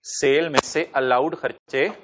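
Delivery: spaced-out dictation, dropping at the end; slow dictation. Real, not acted. Teacher repeating the line for students writing, slow dictation. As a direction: read it out slowly in chunks.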